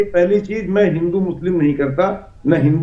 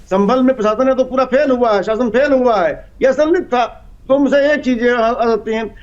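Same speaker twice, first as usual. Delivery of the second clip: higher-pitched, pressing accusation; insistent argument; 4 semitones higher than usual. Real, not acted. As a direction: press the point in a raised pitch. Guest presses accusation after being interrupted. (ऊँचे सुर में ज़ोर देकर)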